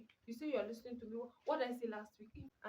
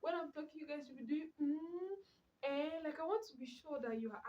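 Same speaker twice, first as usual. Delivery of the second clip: mock pleading; 4 semitones higher than usual. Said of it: "I'm like".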